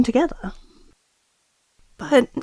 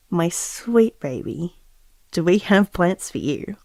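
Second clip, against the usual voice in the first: tender; 4 semitones lower, 4 dB quieter than usual. Acted. Tape message to unborn baby.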